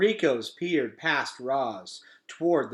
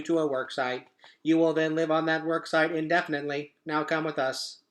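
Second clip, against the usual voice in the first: even, mechanical machine read; robot voice; 3 semitones higher than usual. Acted. Robot explaining Roz's fate, mechanical voice. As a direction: recite like a cold robot.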